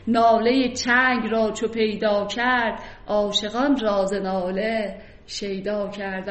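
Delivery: slow, measured reading of the verse; poem recitation. Acted. Teacher reciting a verse for the class, slow and measured. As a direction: let each line of poetry ring out slowly.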